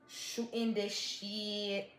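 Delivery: mouth full. Real, not acted. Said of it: "I put too much maple syrup".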